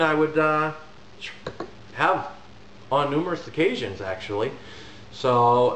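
muffled behind hand; speaking through fingers; hand over mouth. Real, not acted. Seen 0: Hand covers mouth from 1.1s, after exhaling hookah smoke earlier.

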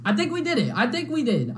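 rising hope. Real, not acted. Hopeful after boss fight.

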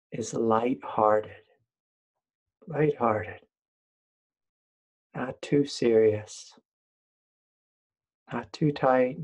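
unhurried meditation guide, long pauses between phrases; guided meditation. Real, not acted. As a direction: lead listeners gently, leaving room to breathe.

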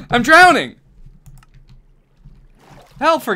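mock panic. Character sinking in game water.

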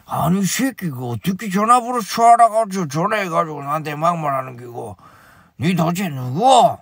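put-on angry chairman in Gyeongsang accent. Chairman cursing the caller in mock Gyeongsang accent. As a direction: swear back in Gyeongsang dialect. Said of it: "경상도 사투리로 말 안 하나?".

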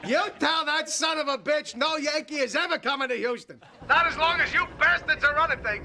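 calls out into a phone at a noisy party; shouting into the phone. Acted. George to the Astros reps on the phone, shouting. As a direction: shouts it for the rivals to hear. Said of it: "I can't hear you".

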